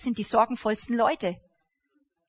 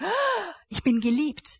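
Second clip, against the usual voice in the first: delighted sigh; 5 semitones higher, slower than usual. Acted. Acting joy at being loved.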